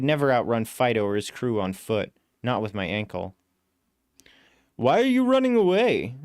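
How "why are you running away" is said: voiced cab driver, much higher and louder; male driver voice. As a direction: play the puzzled cabbie. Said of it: "the driver asks".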